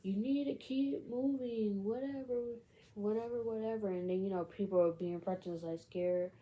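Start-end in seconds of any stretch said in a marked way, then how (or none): 0.0-3.9 mock megaphone announcer. Person on megaphone ordering the crowd along, mock announcing. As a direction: lightly imitate someone calling through a megaphone. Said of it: "the megaphone of the person was like".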